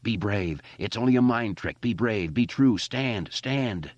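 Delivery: high self-urging cry; screaming at himself. Acted. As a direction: steel yourself aloud. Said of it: "he screamed at himself".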